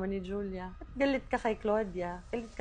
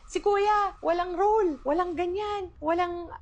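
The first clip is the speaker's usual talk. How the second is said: mocking quote; 9 semitones higher, 4 dB louder than usual. Aunt quoting a relative's rant.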